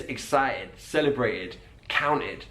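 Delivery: "excited" with the T dropped, slowly; dropped T's. Shown as a demonstration. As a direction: drop the T in "excited, celebrated". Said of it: "he drops the T's".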